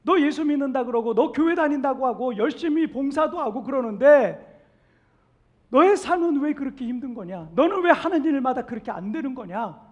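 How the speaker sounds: loud, scornful jabs at a believer; mocking taunt. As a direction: jeer like scoffing neighbours. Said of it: "이렇게 조롱한다는 거예요". (비웃으며 조롱하듯)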